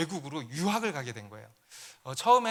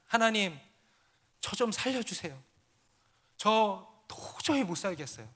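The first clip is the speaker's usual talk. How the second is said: mild mock desperate prayer cry, pitched higher; imitated crying out; 5 semitones higher than usual. Lonely student abroad begging God alone in the house, imitated crying out. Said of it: "소리를 고래고래 지르면서".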